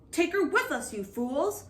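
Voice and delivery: a bellow that jumps up at the start. Acted. Pirate captain ordering his crew, bellowing. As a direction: roar the order at the fools. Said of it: "bellowed Firebeard".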